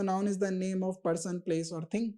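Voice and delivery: very slow, word by word; slow recited definition. Shown as a demonstration. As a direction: recite it like a classroom chant, slowly. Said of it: "noun आपने पढ़ा होगा".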